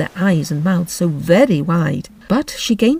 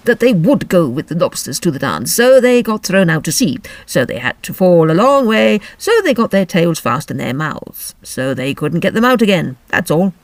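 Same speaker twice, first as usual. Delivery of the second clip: louder, brisk creature voice; Griffin; 4 dB louder than usual. Acted. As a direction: rattle it off gruffly.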